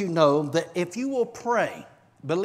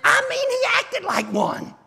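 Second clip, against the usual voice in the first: laughing; 12 semitones higher, 5 dB louder than usual. Real, not acted. Laughing while preaching.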